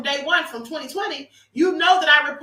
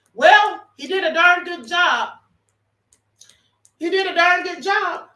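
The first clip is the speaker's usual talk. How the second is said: emphatic praise; 4 semitones higher, 5 dB louder than usual. Real, not acted. Praising actor after his story.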